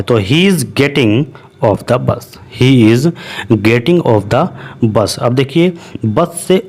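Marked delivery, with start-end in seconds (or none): 0.2-2.2 very slow, split into parts; slow model sentence. Shown as a demonstration. Teacher models the sentence for students, slowly. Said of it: "इस तरीके से हम बोलेंगे". 2.6-5.2 slow but joined, He is getting off the bus in one go; smooth slow repeat. Shown as a demonstration. Teacher repeats the sentence whole for students, slow. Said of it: "इस तरीके से हम बोलेंगे".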